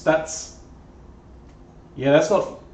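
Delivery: hiccupping mid-word while talking; burping and hiccuping. Real, not acted. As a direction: talk through burps and hiccups. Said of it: "Burping and hiccuping at the same time here".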